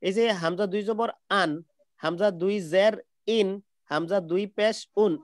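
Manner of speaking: "আন", "ইন", "উন" each said as a separate nasal syllable after its spelling; teacher chanting "আন ইন উন" with the n clearly heard; tanwin drill. Shown as a demonstration. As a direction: recite the three endings one by one like a class drill. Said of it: "তো".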